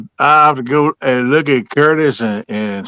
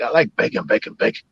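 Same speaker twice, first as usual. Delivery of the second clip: fading dog whisper; 6 dB quieter than usual. Pretend.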